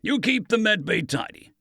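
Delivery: lightly voiced thoughtful remark; a touch of musing. A narrator's reading. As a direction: muse on it, half to himself. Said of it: "Vincent mused".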